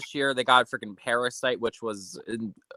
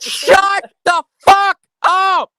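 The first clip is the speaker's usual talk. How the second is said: slow, drawn-out yell, much higher; laughing shout; 11 dB louder, much slower than usual. Real, not acted. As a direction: yell it out in disbelief. Friend reacts to joke.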